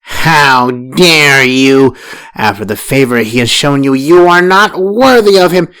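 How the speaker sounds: aghast fury at her insolence; first wife outraged by Farah's curse. A narrator's reading.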